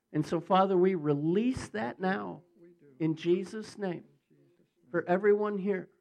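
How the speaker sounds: emphatic, rising prayer in phrases; measured, forceful petition to God; real public prayer. Real, not acted. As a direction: pray fervently over a congregation. Leads a prayer over congregation.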